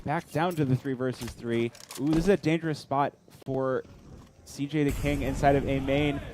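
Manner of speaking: ordinary delivery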